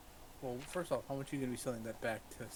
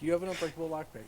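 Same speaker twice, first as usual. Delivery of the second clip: mock announcement; 6 semitones higher, 8 dB louder, faster than usual. Reads the game's notice.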